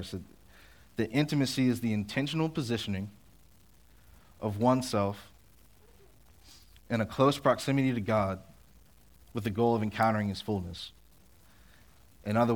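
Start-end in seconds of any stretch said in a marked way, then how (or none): 1.0-10.9 slower, deliberate restatement. Shown as a demonstration. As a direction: lay out each phrase slowly with pauses. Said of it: "I'll say it slower".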